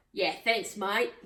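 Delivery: lightly put-on Aussie accent. Shown as a demonstration. Showing friends the real thanks mate, mild Aussie accent. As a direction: attempt a broad Aussie accent. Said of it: "Is that the Aussie accent?".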